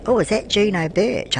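a sudden high delighted gasp of recognition; surprised. Real, not acted. Granny spotting Juno Birch in the game, delighted surprise. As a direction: squeal it as if spotting a star.

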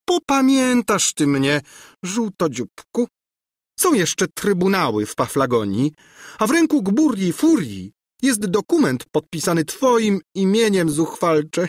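high, threatening screech; vengeful high-pitched tirade. A narrator's reading. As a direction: screech threats after someone. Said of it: "skrzeczała za nim Gburja Furia".

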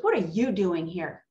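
mock curt challenge, falling in pitch; imitating rude greeting. Rude coworker greeting the volunteer, imitated disdain. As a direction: mimic her unwelcoming question. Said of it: "looked at me just like this".

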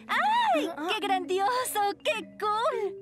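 excited squeal. Acted. Girl thrilled about Terror Week.

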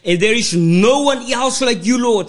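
fervent church prayer, rhythmic and pleading; praying aloud. Acted. Pastor praying over the word before preaching, fervent prayer. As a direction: pray over the congregation with steady fervour.

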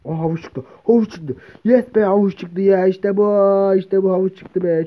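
loud, high, thrilled shouts over the carrot; excited cheering. Real, not acted. Gamer cheering at a carrot drop, loud and thrilled. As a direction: cheer like you just struck gold.

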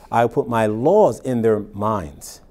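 laws stressed, slow and falling; slow down and lean on laws. Shown as a demonstration. Preacher points out the plural to congregation, slow stress on laws.

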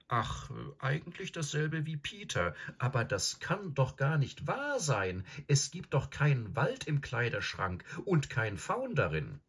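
put-on high-pitched, protesting girl; doubtful Susan. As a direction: object in a high girlish voice. Plays Susan in a story.

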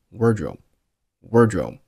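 "wardrobe" with the final b held silent; unreleased b in "wardrobe". Shown as a demonstration. Teacher shows lost plosion, "wardrobe" with no final burst. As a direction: close the lips on the b of "wardrobe" without releasing it. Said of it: "留出时间不发声音".

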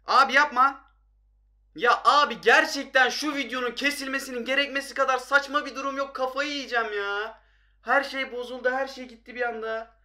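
high-pitched, frustrated protest; loud at first, then high upset complaint; exasperated outburst. Real, not acted. Game ruined by sudden interruption.

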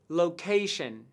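"location" with CA stressed; stress on second syllable. Shown as a demonstration. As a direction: hit the CA in "location". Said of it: "nhấn trọng âm vào âm tiết thứ hai". (nhấn trọng âm âm tiết thứ hai của "location")

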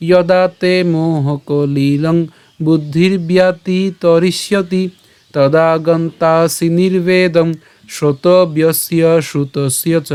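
slow, even-toned chant of a shloka; Sanskrit verse recitation. Shown as a demonstration. Teacher showing how to recite from the start, slow even chant. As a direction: chant it steadily, long vowels drawn out. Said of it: "আমি আবার বলছি".

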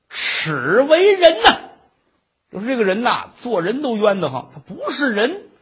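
storyteller's mock venom; cursing slander. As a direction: act out a hammed-up denunciation. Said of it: "咬牙切齿， 胡说八道， 这么一诅咒人家".

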